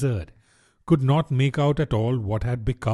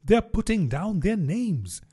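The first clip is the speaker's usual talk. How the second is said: griffin whispering; 7 semitones higher than usual. Acted. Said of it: "the griffin whispered in reply".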